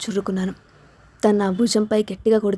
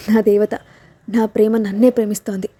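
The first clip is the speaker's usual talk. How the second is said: joyful shout. Acted. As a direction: shout it out with joy. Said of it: "అని గట్టిగా అరిచాను". (ఆనందంతో గట్టిగా అరవడం)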